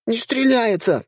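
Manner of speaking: high squeaky panicked yell; gunner yelling. A narrator's reading. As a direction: shriek it in a high dryad voice. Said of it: "кричала наводчица".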